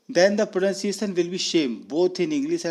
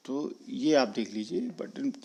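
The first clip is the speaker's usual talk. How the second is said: whisper; 5 dB quieter, slower than usual. Real, not acted. Unvoiced aside.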